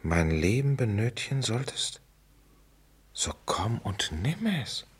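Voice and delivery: hushed, slow, savouring each word; slow whisper. Shown as a demonstration. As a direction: breathe the quote to himself. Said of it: "repeats the quote".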